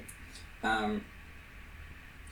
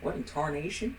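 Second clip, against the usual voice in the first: mock Southern accent through a laugh; a laughing cowboy Southern accent; 4 semitones higher, 4 dB quieter than usual. Host fakes Southern accent while challenging her friend. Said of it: "give me a Southern accent right now".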